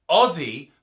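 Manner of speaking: Aussie drawn out with a z sound; phonetic pronunciation. Shown as a demonstration. Australian giving a hot tip on sound versus spelling, Aussie with a z. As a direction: say Aussie slowly with a Z in it. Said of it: "it may sound phonetically as".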